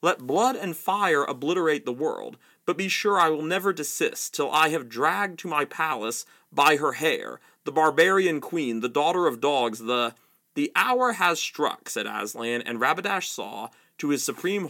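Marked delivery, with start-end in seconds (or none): 0.0-10.2 raging prince. Acted. 10.5-11.9 slow, grave pronouncement; ominous lion. Acted. Aslan's pronouncement.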